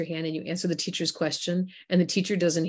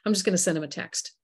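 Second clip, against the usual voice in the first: dismissive shrug; faster than usual. Retold or imitated. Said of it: "the people like".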